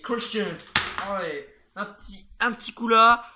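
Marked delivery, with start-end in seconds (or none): 2.4-3.2 louder sudden shout on the hit; loud call. Real, not acted. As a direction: punch the call out. Calls a hit live.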